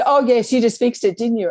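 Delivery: mock sarcastic Karen. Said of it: "she said".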